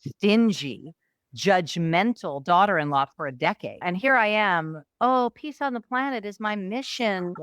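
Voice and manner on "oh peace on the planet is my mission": higher, mock-lofty idealist; self-mocking. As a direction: send up your own saintly ideals. Mocking her own lofty ideals.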